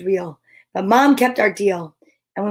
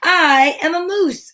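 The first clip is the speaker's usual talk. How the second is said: high, loud insistent call; 8 semitones higher, 5 dB louder than usual. A narrator's reading. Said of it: "called Morris".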